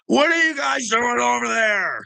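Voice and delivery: yelled high and loud, mocking; shouted taunt. Real, not acted. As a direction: bellow the question at him like a jeer. Taunting rant at Castro.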